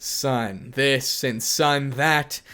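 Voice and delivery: slow, drawn-out contemptuous mockery; mocking. Issei mocking his father's nagging, slow sneering voice. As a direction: stretch each word to mock him.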